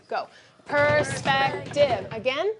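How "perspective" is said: per-spec-tive, slow and syllable by syllable; tapping out the syllables of perspective; syllables counted out. Shown as a demonstration. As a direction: beat out perspective one syllable at a time. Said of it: "Let's count out the syllables".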